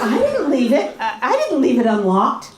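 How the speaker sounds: defensive denial. Shown as a demonstration. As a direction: snap back defensively. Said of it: "That was the bad example".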